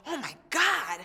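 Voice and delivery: high, loud giddy exclaim; retold excitement. Singer telling mom she's on the show, giddy high exclaim. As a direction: squeal it like you can't believe it. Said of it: "I'm like".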